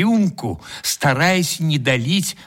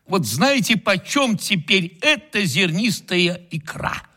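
suffering. Acted. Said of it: "страдальчески ответил".

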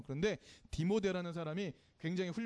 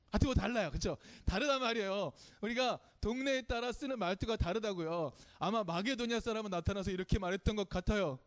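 ordinary talk, nothing marked

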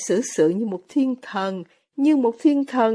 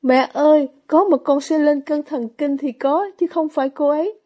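a daughter crying out to her mother, anxious and louder; anxious outcry; 4 semitones higher, 4 dB louder than usual. Acted. Daughter protests to her mother, anxious and louder. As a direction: raise the voice, worried and insistent. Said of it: "Lisa kêu lên giọng đầy lo lắng".

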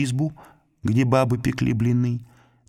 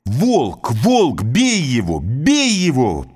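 louder, higher shout to beat him; 6 semitones higher, 6 dB louder, much slower than usual. Acted. Village women yelling at the wolf by the river, loud alarm. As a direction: raise the alarm, yelling across the ice. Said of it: "идут за водой и кричат".

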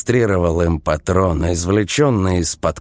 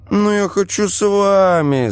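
put-on higher, whiny little boy; little brother whining to be let in; 3 dB louder than usual. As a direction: plead like a sulky child. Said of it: "законючил тот".

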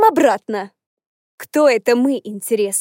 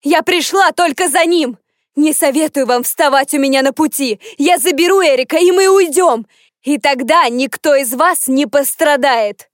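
near shouting; 2 semitones higher than usual. Acted. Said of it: "Голос Фран почти сорвался на крик".

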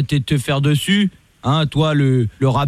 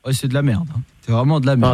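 lightly voiced lower police commissioner; stern police officer; 4 semitones lower than usual. Host posing as police commissioner calling the rapper, stern. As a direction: play a stern cop on the phone. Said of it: "commissaire Latour".

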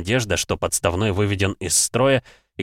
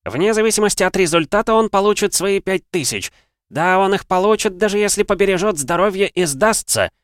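loud, high ring announcer; 11 semitones higher, 4 dB louder than usual. Acted. Announcer voice before the fight.

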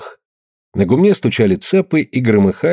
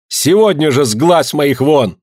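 mother shouting her out, higher; 5 semitones higher, slower than usual. A narrator's reading. Mother shouting at her daughter while leaving, furious. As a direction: yell it on the way out. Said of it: "крикнула".

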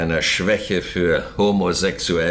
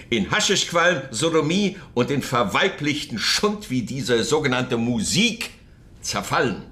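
rising rant; 5 semitones higher than usual. Acted. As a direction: pitch climbs into a fevered tirade, fast in the middle. Andropov rants about Soviet decay. (steigernde Hetzrede)

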